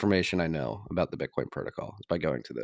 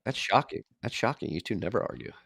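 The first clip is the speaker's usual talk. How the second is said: mock shock, trailing off softer; sarcastic; 5 dB quieter than usual. Real, not acted. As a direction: feign surprise with dry sarcasm. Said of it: "you're being sarcastic".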